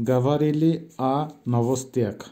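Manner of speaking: গাভারেলি আ নভস্তিয়াক read out word by word; pronunciation demo. Shown as a demonstration. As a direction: model গাভারেলি আ নভস্তিয়াক for students. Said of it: "উচ্চারণ হবে মি".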